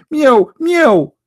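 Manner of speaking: high, mocking meow like a cat. Mocking the white dog as a high cat. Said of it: "He will say".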